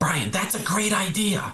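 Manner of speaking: positive, enthusiastic tone. Showing how tone changes the meaning of the same words, positive and enthusiastic. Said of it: "I sound positive, enthusiastic".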